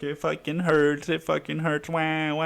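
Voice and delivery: mild pretend wail, no real tears; mock child crying. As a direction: imitate a whining hurt kid. Imagined child crying in pain.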